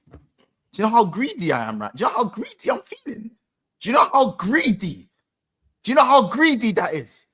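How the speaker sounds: building greedy rant. Real, not acted. Ranting about feeling greedy.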